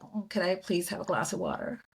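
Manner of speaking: switching to an easy American way of asking; lightly put-on American accent; mild American accent. Retelling her switched American request to the stewardess, mild American accent. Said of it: "then I was like".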